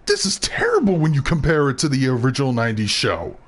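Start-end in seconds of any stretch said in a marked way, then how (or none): 0.1-1.0 disgusted. Retold or imitated. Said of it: "I'm like".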